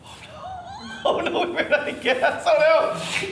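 high, laughing mock dismay. Dad to his kids on the stalled boat, laughing mock panic. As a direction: laugh through a fake panicked oh no.

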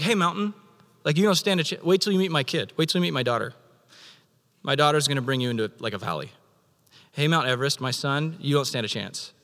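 a light playful taunt at the mountain; God boasting to a mountain about his children, lightly teasing. Acted. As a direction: brag about your kid to a bully. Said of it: "taunting mountains".

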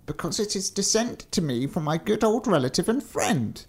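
high-pitched, self-justifying giant; thin giant. Acted. Thin giant defending his inheritance, high character voice.

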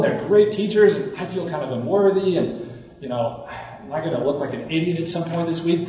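anxious self-talk. Retold or imitated. Speaker retells worries before leading a seminar, mildly anxious. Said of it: "I get really anxious".

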